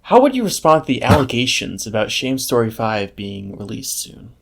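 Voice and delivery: formal news reporter asking. Pretend. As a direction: interview them like a TV reporter. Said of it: "put on a reporter voice".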